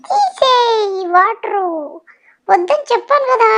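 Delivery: put-on high, sudden child's protest to mummy; whiny yell. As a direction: shriek it like a stubborn kid. Child fights mother over water. (గట్టిగా అరుస్తూ పిల్లల మొండితనం)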